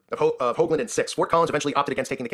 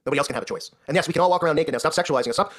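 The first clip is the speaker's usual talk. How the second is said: mocking feminist voice. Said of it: "And this is what they're doing".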